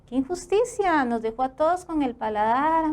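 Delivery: mock-complain he ate it alone; mock outrage. Presenter teases colleague over the pizza: playful mock outrage. Host teasing about the pizza.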